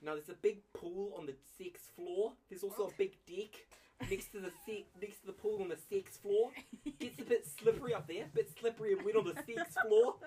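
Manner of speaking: prim New Zealand front desk voice; New Zealand accent. Acted. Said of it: "the rare New Zealand accent".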